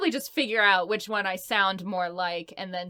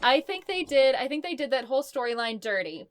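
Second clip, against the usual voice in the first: higher-pitched, insistent protest; heated fan opinion; 5 semitones higher, 4 dB louder than usual. Real, not acted. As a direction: argue it passionately, point by point. Playful argument over show's ending.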